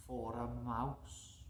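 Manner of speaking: very soft, slow, rising on mouse; soft mysterious reading; hushed storybook reading. A narrator's reading. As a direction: whisper it to the children. Story line read softly.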